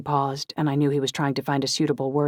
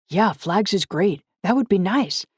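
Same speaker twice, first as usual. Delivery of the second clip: higher, drawn-out pleased reply; genuinely pleased; 6 semitones higher, 5 dB louder than usual. A narrator's reading. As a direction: sound gladly surprised by the invitation, lifting the pitch. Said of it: "Gage sounded genuinely pleased".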